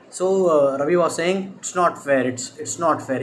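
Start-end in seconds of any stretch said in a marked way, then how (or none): 1.6-3.2 understated blubbering complaint; mild sad voice. Acted. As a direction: act a touch mournful, pitched slightly down. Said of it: "in a sad voice he was saying".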